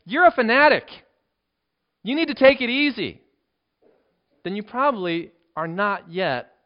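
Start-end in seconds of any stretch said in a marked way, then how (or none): 0.1-3.2 high, loud scolding from onlookers; loud accusation. Acted. Onlookers judging a zealous believer's life, loud accusation. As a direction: raise pitch and volume to accuse. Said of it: "look at your life and say".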